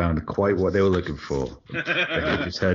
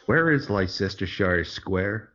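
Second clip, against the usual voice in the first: put-on Alabama accent; slower than usual. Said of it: "That wasn't a terrible Alabama accent".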